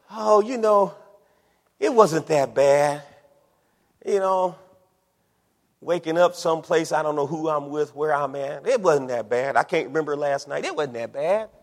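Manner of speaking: mock casual shrug in the voice; downplaying excuses. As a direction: shrug it off like it was nothing. Voices the backslider making light of past.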